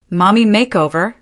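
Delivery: rising in disbelief; disbelieving repeat. Retold or imitated. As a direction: echo it back, stunned. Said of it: "disbelief washing over me".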